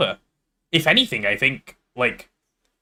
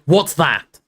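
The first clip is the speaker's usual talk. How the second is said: indignant shout; 4 semitones higher, 4 dB louder than usual. Acted. Ron mid-row with Hermione.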